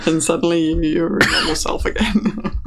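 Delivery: breathy giggling under the breath; barely holding back a laugh; laughing whisper. Real, not acted. GM giggling while narrating.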